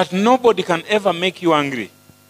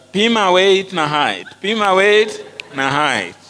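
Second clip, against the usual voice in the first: street vendor call; 3 semitones higher, slower than usual. Retold or imitated.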